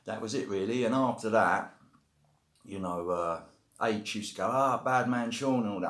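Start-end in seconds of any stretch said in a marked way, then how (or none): 4.5-5.6 put-on a half-hearted Jamaican accent, higher, louder and drawn out slowly; a light try at Jamaican patois, stretched slow; attempted Jamaican accent. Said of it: "I can't really do it in a Jamaican accent".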